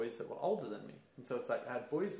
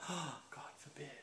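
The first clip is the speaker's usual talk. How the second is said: slow, sarcastic shocked gasp; host mocking the taboo of men crying; mock horror; 3 semitones higher, 7 dB quieter, much slower than usual. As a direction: feign scandal with a wink.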